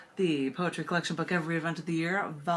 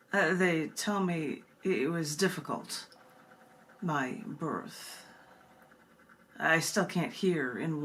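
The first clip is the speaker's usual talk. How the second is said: slow, intimate recital with long pauses; poem reading; slower than usual. Acted. Reads the poem Twin.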